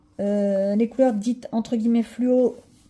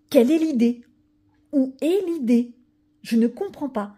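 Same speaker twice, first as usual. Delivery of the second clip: louder, higher, the second question slowed; exasperated; 3 semitones higher, 5 dB louder than usual. Real, not acted. Vlogger fed up with the seller's signatures on every page, exasperated. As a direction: demand the point of it, fed up. Indignant at signed pages.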